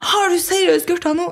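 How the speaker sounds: half-playful shocked accusation; mock outrage at the smell; disbelieving brother. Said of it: "Mens han tar T-skjorta si opp".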